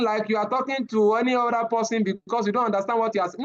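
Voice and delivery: level, unengaged talking with little pitch movement; monotone demo. Shown as a demonstration. Trainer showing the class how not to talk, in a monotone. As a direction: run it along on one tone, sinking at the end. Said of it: "No, don't talk like that".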